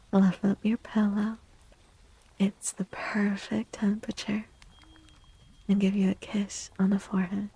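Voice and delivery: tender whisper while tucking someone in; bedtime ASMR whisper. Acted. Tucking a viewer into bed.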